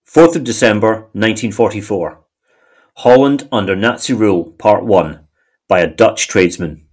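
measured heading read with pauses; article read-aloud. Acted. Co-host introduces a wartime newspaper article, measured read-aloud. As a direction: announce the dateline and title evenly.

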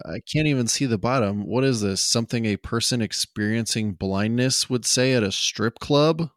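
lightly voiced, half-joking delivery; mock confused line read. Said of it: "and he says".

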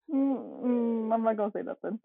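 mock noncommittal. Imitating a driver who stays out of it, mock noncommittal. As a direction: lightly mimic someone keeping out of it. Imitates Steve staying silent while driving.

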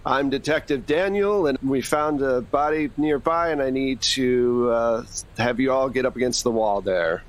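put-on detective ordering the crowd to the wall, mild American accent. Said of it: "in my best American accent".

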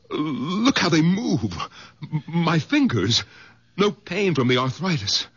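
astonished at his own hands; amazed wonder. Acted. Discovers healed hands.

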